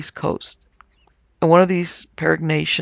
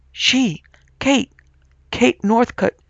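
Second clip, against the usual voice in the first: terrified scream; 7 semitones higher, slower than usual. A narrator's reading. Cowles screaming the dead woman's name in terror. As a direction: shriek her name in horror, high in the voice. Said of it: "he screamed".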